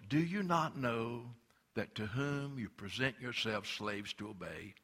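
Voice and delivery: slow, deliberate scripture reading; said slowly. Shown as a demonstration. Preacher slowing the verse down for the congregation, slow and deliberate. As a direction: draw out every word of Do you not know. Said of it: "Let me say that slow".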